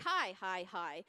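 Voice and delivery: "Hi, hi, hi" stepped through different tones, the last one lowest; different pitch levels. Shown as a demonstration. Niece calling three aunts with one name, "Hi" at different pitch levels. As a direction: say each "Hi" on its own pitch, ending low. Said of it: "at different levels".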